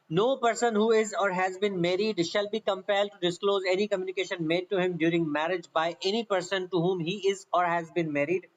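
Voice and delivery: reading the law out word by word at dictation pace; slow, careful dictation of a legal clause; slow statute reading. Shown as a demonstration. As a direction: spell the section out slowly for students to copy. Reads the statute text aloud.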